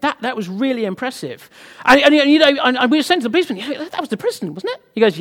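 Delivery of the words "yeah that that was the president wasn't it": awed question. Retold or imitated. Retold awe, speaking to the policeman.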